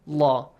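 "la" with a dark, heavy l; heavy lam. Shown as a demonstration. Teacher showing the rule's result, heavy lam. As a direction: say "la" heavily, like "law". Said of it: "pronounced with a heavy sound".

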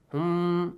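held nasal "mmm" hum; two-count hum. Shown as a demonstration. Teacher showing students the length, held hum. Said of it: "two counts".

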